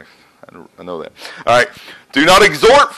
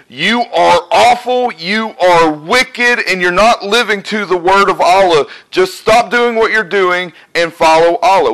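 harsh condemnation; 4 semitones higher than usual. Pretend. Preacher mimicking a judgmental Christian, scolding condemnation. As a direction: pronounce judgment on them, dragging out awful and wicked. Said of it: "But if I told you today".

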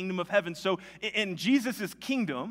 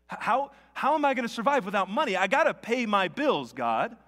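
higher, louder, fast anxious plea; frantic imagined prayer, a little hammed up; mock panic; 4 semitones higher, 4 dB louder than usual. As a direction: blurt the fear out to God in a rush. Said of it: "the panic starts to set in".

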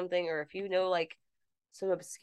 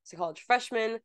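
news blurb read; 3 semitones higher than usual. Acted.

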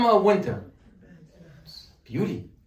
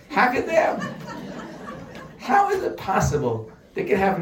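laughing exasperation; 4 semitones higher than usual. Real, not acted. Exasperated rant about stores.

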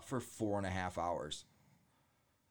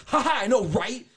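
much higher, loud sarcastic mimic; catty mock girlfriend; 14 semitones higher, 13 dB louder than usual. Mocking the ex girlfriend's sarcastic reply, high catty voice. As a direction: mimic her fake sweet laugh, high and loud.

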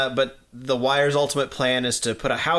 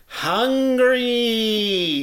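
high, loud shouted hungry; mock yell; 9 semitones higher, 4 dB louder than usual. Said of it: "just her yelling".

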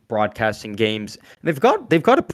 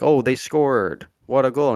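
slow, bored, flat play-by-play; monotone; 2 semitones higher, 4 dB louder, slower than usual. Retold or imitated. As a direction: drone it out with zero excitement. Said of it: "just be Monto and be like".

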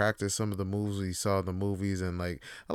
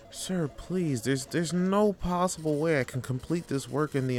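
pleading employee; 3 semitones higher than usual. Acted. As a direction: beg the boss for mercy. Employee begging to go home.

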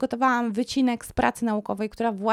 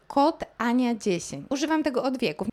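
mock promo plug; 3 semitones higher than usual. Mock sponsor code plug.

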